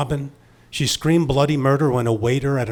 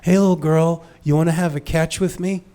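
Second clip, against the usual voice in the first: imitating a condescending adult, pitched up; patronizing; 5 semitones higher, 3 dB louder than usual. Obnoxious relative asking a little girl to play catch, patronizing. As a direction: talk down to a small child in a higher voice. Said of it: "in a very patronizing way".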